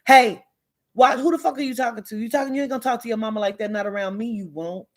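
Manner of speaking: put-on fast, heated telling-off of a kid; angry scolding. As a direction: snap at the child like a fed-up aunt. Scolding a disrespectful child.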